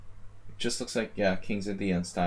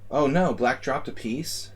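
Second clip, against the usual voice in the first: mock dismay; 4 semitones higher, 4 dB louder than usual. Real, not acted. Opponent blunders on stream.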